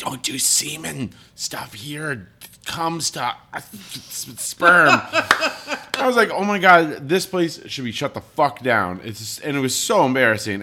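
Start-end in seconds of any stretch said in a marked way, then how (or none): 0.0-4.9 hushed, urgent whisper-yell. Retelling what the people there told them: imitating a whisper-yell. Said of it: "they were like whisper yelling".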